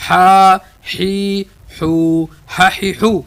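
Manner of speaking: ہا حی حو said short and fast; quick syllables. Shown as a demonstration. Teacher reading ح syllables quickly to students. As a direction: rattle off ہا حی حو. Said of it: "تیز پڑھیں گے".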